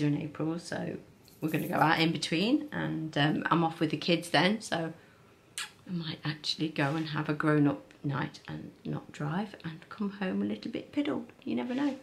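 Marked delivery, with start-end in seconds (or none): 5.9-12.0 cheeky whisper. Real, not acted. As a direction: whisper it like a naughty secret. Confiding a cheeky plan.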